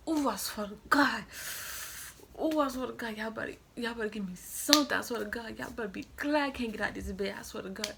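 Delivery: mock-furious threats from a hospital bed; going off. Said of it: "Man, I was going off".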